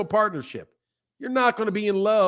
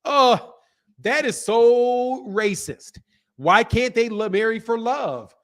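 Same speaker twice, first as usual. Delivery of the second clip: high, mock-indignant girl voice, dragged out slowly; mocking the teen girl; 3 semitones higher, slower than usual. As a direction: whine it like an offended teenager. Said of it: "she comes up and says".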